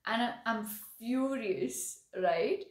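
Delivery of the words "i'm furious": "furious" dragged out very slowly; demo of fury. Shown as a demonstration. Teacher contrasting angry with furious, slowly. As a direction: stretch "furious" to show the intensity. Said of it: "can you see the difference between saying".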